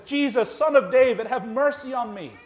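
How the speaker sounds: imitated desperate cry, high and loud. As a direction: raise it into an insistent plea. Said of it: "Even louder".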